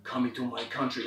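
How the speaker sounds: put-on low, seething accented rant; angry foreign accent. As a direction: spit it out in a thick accent. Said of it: "he is angry".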